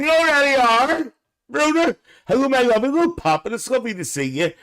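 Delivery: high, fast sugary welcome; gushing high voice. Acted. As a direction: lay on the sweetness. Voicing Willie's family greeting Papa.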